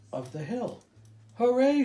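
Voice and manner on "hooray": high, loud cheer; big crowd hooray; shouted. A narrator's reading. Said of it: "shouted the people".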